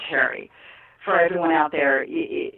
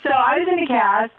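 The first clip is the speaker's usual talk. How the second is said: high, laughing through the words; half-laughing confession; 8 semitones higher than usual. Real, not acted. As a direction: giggle while admitting it. Laughing about her injury.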